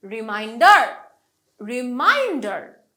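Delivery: রিমাইন্ডার with মাইন্ড punched; stress on mind. Shown as a demonstration. Teacher drilling derived words, রিমাইন্ডার stressed on মাইন্ড. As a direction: lean hard on মাইন্ড in রিমাইন্ডার. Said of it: "মাইন্ডটাতে আমি জোর দিলাম".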